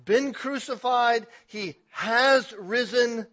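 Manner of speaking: preacher voicing the angel, loud and high; loud angel's reassurance. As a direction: proclaim it as the angel. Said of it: "He says".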